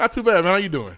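code switching voice. Shown as a demonstration. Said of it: "I said".

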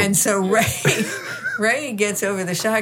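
ordinary delivery

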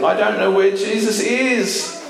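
high, plaintive storytelling voice; distressed Mary. Retold or imitated. Mary answering the man at the tomb, mildly distressed. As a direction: lightly act out a woman at a loss.

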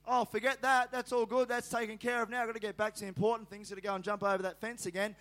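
brushing it off, eager to get back; breezy dismissal. Retold or imitated. Preacher voices son keen to climb again, breezy dismissal. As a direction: shrug off the hurt and rush on.

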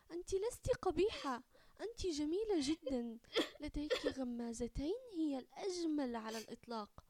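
high, crying reassurance; tearful comfort. Acted. Mother comforts crying daughter through tears. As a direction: hold back sobs as you comfort her. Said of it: "سقطت الدموع من عيني والدتها".

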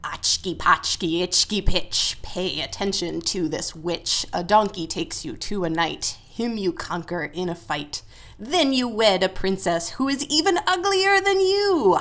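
witch voice. Pretend. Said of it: "done in a witch voice".

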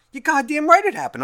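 loud, high outraged retort; mock furious comeback; indignant yell. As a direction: throw it back at her, furious. Mock rant at coworker.

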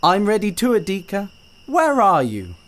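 calling out. Acted. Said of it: "Mama Panya called".

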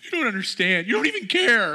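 imitating a devastated child, pitched high; upset crying boy. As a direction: play the boy who just lost, on the verge of tears. Boy accuses his father.

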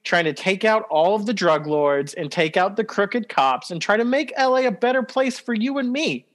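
mock earnest. Ironic praise of the Predator.

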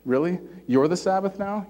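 mild mock incredulity, pitch lifting; a touch of indignant disbelief; freaking out slightly. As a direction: lightly act out an affronted challenge. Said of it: "freaking out a little bit".

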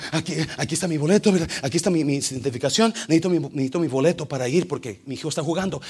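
a rushed man shoving his ticket forward; out-of-breath traveller pleading quickly; sweaty hurried passenger. Retold or imitated. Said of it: "y me dice, sudando".

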